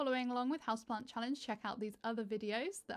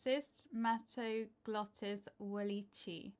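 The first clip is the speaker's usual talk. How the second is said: British accent attempt; slower than usual. Shown as a demonstration. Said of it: "I can't even say it in a British accent".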